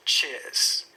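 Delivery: "Cheers" with no R sound; non-rhotic "Cheers", vowel gliding straight into the s; silent R. Shown as a demonstration. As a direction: say "Cheers" the British way, R left silent. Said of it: "I don't pronounce the R".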